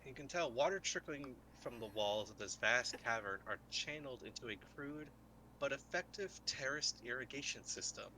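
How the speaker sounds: unhurried scene-setting read; game master scene setting. A narrator's reading. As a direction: paint the cavern for the players.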